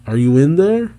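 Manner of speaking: understated hail; mild call-out. Retold or imitated. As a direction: call through a door, rising at the end. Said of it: "Someone calling out".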